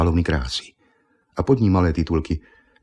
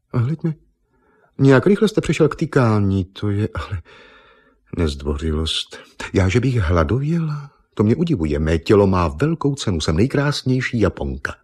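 a proud model who won't be fooled; vain beauty queen; 3 semitones higher than usual. Acted. Miss Nippon insisting to Argon she is no Eva, indignant.

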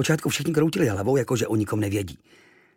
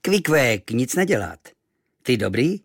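kindly native; 3 dB louder than usual. Acted. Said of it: "vlídně usmál".

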